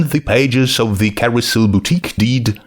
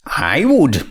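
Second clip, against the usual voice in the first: solemn princess; 5 semitones higher than usual. Acted. Twilight answers the judge.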